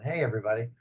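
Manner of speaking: raspy, gravelly own voice. Retold or imitated. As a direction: lean into the rasp. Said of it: "I thought I talked really normal".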